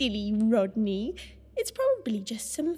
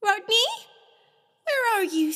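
calling out; 4 semitones higher, 6 dB louder, faster than usual. Acted. Searching for missing Rodney.

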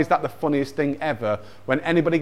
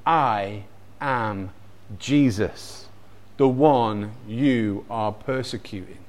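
low, soft, slow divine voice; solemn, measured, pausing between phrases; voice of Jesus; 5 semitones lower, 6 dB quieter, slower than usual. Acted. Jesus answering blinded Saul on the road, low and solemn. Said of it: "he hears this voice".

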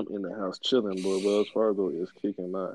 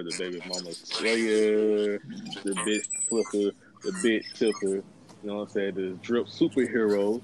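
ringmaster. Acted. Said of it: "this is just my intro".

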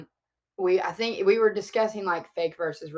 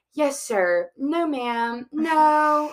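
put-on higher, careful overdone northern accent; extra northern accent; 10 semitones higher, 6 dB louder, much slower than usual. Talking to Calvin's family, extra northern accent. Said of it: "extra northern for no reason".

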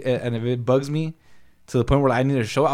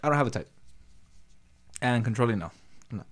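talking through a closed helmet; inside a helmet. Real, not acted. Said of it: "I can't talk to you with the helmet on".

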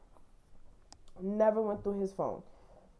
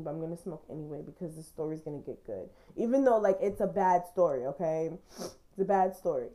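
talking around a lit cigarette; words with a cigarette at the lips; cigarette in mouth. Real, not acted. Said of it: "Hold on, let me light my cigarette".

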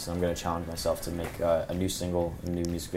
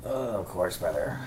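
put-on Mexican accent. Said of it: "that Mexican accent we like to do".

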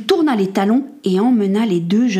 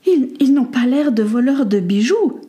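higher, stammering lady; hesitant defence; 4 semitones higher than usual. Acted. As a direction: plead gently on their behalf. Lady resumes her hesitant plea.

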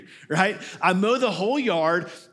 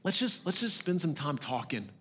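gentle God; 4 dB quieter than usual. Retold or imitated. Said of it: "Or God says".

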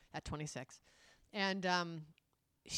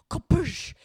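mock release sound; 8 semitones higher, 11 dB louder than usual. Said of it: "you cut to him, like".

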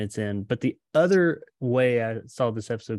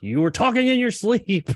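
high, louder mock old man, lightly hammed; a sly old man's reveal, played up high; mock creepy old man; 12 semitones higher, 5 dB louder than usual. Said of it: "He's like".

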